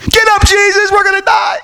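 high frantic yell to wake him; frantic shout. Retold or imitated. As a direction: shake him awake, yelling. Disciples wake Jesus in storm.

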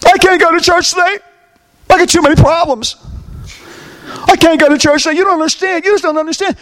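high-pitched mock complaint; whiny excuse-making. Churchgoer excusing absence from church, mock complaining.

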